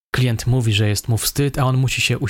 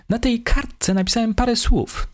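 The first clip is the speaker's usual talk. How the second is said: higher suspect voice, engaged and lively; eager telling; 12 semitones higher than usual. A narrator's reading. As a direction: tell it with real eagerness, higher. Suspect continues.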